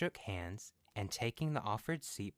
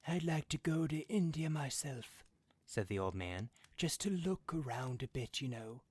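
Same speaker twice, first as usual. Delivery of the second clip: put-on a higher-pitched old man griping about the mud, a touch of anger; grumbling old man; 6 semitones higher than usual. A narrator's reading. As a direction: complain like a fed-up old father. Old man voiced in story.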